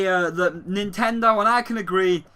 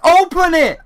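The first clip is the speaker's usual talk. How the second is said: louder, higher yell; excited yell; 7 semitones higher, 8 dB louder than usual. Retold or imitated. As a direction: demand it like an impatient fan. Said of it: "And it's like".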